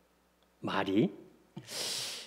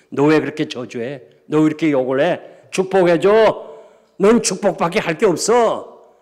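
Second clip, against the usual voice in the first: commanding divine voice, building louder and higher; God; 4 semitones higher, 8 dB louder than usual. Retold or imitated. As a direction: imitate a stern command from heaven. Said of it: "하나님 음성".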